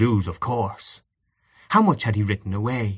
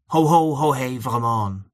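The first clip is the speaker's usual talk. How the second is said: merry chorus shout; 3 semitones higher than usual. Acted. Young men singing in chorus.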